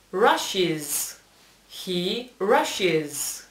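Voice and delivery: "rushes" with an added "-iz" syllable; terminación en «is». Shown as a demonstration. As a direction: say "rushes" as RASH-iz, for learners. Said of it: "poner de nuevo is". («rushes» pronunciado «rash-is»)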